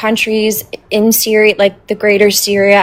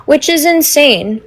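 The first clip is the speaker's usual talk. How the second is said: talking through a mouthful of taffy; words round a chewy bite of candy; chewing sticky toffee. Real, not acted. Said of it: "sorry, I'm eating taffy".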